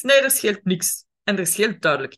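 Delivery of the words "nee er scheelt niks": sulky denial. Retold or imitated. Sulky partner denies.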